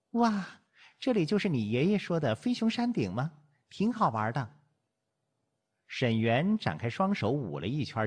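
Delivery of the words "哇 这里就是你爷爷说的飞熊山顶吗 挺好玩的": high-pitched excited wonder; delighted exclamation. A narrator's reading. Visitor twirling on the mountaintop, excited cry. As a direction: exclaim it, thrilled by the view. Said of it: "叫道".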